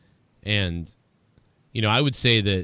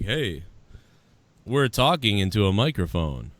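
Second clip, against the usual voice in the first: Boston accent. Shown as a demonstration. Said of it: "That's basically the accent".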